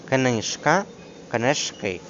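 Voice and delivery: КНИЖКА stressed on КНИЖ, then КНИЖКИ on КИ; stress shift to the ending. Shown as a demonstration. Teacher contrasting singular and plural, stress moving to ending. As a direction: move the beat to the last syllable in КНИЖКИ. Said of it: "наголос проходить у закінчення".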